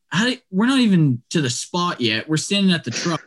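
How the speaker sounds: mildly indignant, voice lifted; retold protest. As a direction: replay your baffled pushback at her verdict. Retold protest at tracker's verdict.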